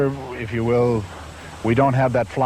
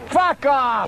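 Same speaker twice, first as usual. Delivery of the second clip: angry shout; 10 semitones higher than usual. Real, not acted. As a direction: blast it out in frustration. Cursing at forgotten line.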